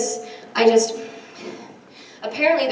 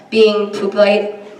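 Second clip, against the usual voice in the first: slow, laughing pun; much slower than usual. Real, not acted. Wordplay on shy poopers.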